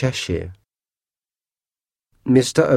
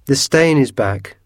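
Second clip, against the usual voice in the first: put-on raised, louder boy's cry; excited cry; 4 semitones higher, 4 dB louder than usual. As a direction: call out the news, alarmed. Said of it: "cried Georgie".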